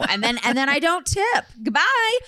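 haughty. Pretend. Playing stingy customer.

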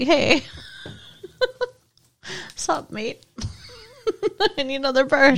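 laughing mock English accent; a giggly, lightly English pet-shop customer; Spike impression. Girlfriend mimicking Spike at the pet shop, mock English accent through laughter. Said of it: "your impersonation's pretty good".

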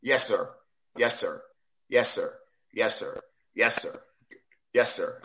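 low-key, dutiful repeating; meek retold acknowledgement; deferential "sir". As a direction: answer obediently, each one falling. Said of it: "I started calling him sir".

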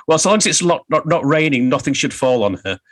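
put-on northern accent. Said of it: "I can only do it in a northern accent".

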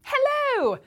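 bright high British hello; English accent. Pretend. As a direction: greet them in a posh English accent. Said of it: "talking like this ... my English accident".

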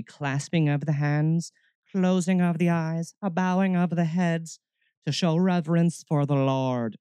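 high, monotone intoning of reverence; mock pious. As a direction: intone it like a parody of solemn church piety. Mocking stiff pious prayer posture.

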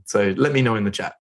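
ordinary delivery

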